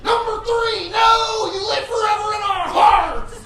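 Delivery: dad yelling. Retold or imitated. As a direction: yell at the race on TV. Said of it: "I'm always like".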